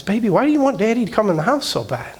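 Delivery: mildly exasperated retold plea to his little girl; retold pleading question. Retold question to his persistent daughter.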